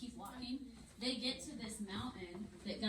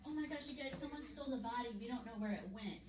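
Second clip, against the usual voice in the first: acted alarm; 3 semitones higher, 5 dB quieter, faster than usual. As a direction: play breathless Mary reporting a theft. Mary alarms the disciples.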